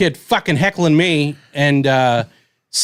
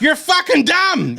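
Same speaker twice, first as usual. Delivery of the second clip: high yelled insult, slow; mock yell; 10 semitones higher, slower than usual. Comic to heckling kid, mock yelled insult. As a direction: blurt it out like you snapped.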